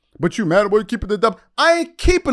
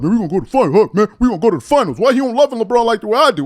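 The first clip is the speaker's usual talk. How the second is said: fast, louder mocking hype; 3 semitones higher, 4 dB louder, much faster than usual. Mocking the Lakers fans' boasts, fast hammed-up hype. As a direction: rattle off his boasting in a rush. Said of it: "talking about".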